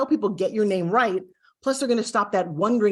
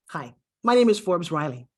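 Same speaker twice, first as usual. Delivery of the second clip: weighty "Hi... my name is Forbes Riley", with a beat; measured, important-sounding "Forbes Riley"; gravity and importance; 3 semitones lower than usual. Shown as a demonstration. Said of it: "there's like a gravity to it".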